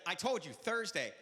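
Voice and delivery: slow, curt impatience; irritated repeat. Retold or imitated. Annoyed train clerk repeating the day, slow and curt. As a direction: spell it out like to a slow caller. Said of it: "They said".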